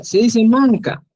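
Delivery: manca, said slowly and clearly; slow clear Quechua manca; Quechua word. Shown as a demonstration. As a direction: model manca for students. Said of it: "¿cómo se dice?".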